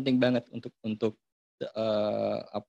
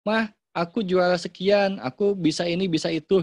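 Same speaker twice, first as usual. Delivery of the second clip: lightly voiced proud child, higher-pitched; boasting child; 6 semitones higher, 4 dB louder than usual. Child tells mother about winning a prize, boasting. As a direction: announce it like an excited kid, pitch up. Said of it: "anak-anak berprestasi, terus bilang".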